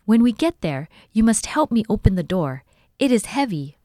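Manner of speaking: high, loud call over the wind; still shouting. A narrator's reading. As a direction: keep calling back to the children. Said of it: "Jessie shouted back".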